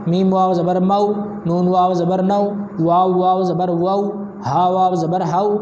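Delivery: steady, sing-song reading of each syllable; spelling drill recitation. Shown as a demonstration. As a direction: recite the drill evenly for a child to follow.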